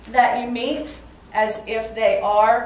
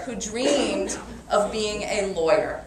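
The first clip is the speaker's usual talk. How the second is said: Brooklyn lawyer; slower than usual. Shown as a demonstration. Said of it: "if you talk like this from New York".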